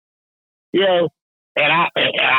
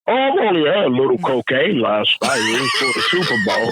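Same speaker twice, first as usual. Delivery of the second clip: mock sheepish worker. Worker excuses himself to security.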